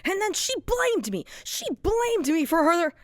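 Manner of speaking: very high, loud, cracking laughter through the words; laugh-cry as you unravel; manic laughing breakdown. Acted. Broken character laughing hysterically while blaming Pomni, unhinged.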